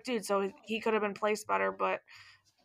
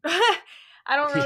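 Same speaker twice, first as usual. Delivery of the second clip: laughing; 4 semitones higher, 6 dB louder, slower than usual. Real, not acted. Laughing mid sentence.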